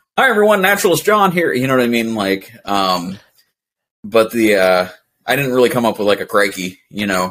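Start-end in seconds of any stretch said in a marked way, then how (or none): 0.2-1.5 very high-pitched nature-video presenter voice. Guest showing the voice he used in his naturalist videos, in a presenter voice. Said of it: "my voice for those videos was different than my normal voice like this".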